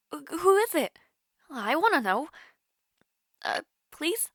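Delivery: high, eager begging; pleading. Acted. Begging the friend to reveal their crush, pleading. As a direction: coax it out of them, sweetly insistent.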